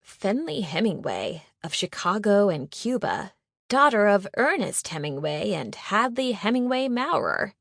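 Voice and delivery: lightly pompous society-page read; a touch of a formal announcer reading the news of the day; gently mocking, proclaiming each name; mock wedding announcement. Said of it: "put on a voice as if reading from a wedding announcement".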